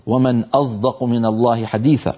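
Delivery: أصدق with the ص leaning toward an emphatic z; sad voiced toward z. Shown as a demonstration. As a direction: recite أصدق in the old Qur'anic reading. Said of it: "بعض العرب يقول". (أصدق بصاد مشمة زايا)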